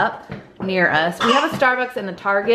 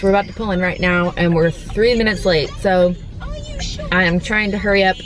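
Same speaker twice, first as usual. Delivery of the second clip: talking while chewing gum; words around a wad of gum. Real, not acted. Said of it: "Sorry I'm chewing gum".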